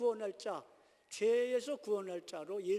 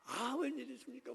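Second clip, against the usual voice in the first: feigned; 4 semitones higher than usual. Acted. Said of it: "위선자죠".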